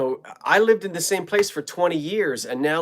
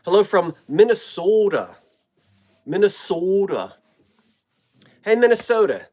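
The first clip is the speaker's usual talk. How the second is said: playful hearty hello; 3 semitones higher, 6 dB louder than usual. Acted. Greeting viewers from Minnesota, playful.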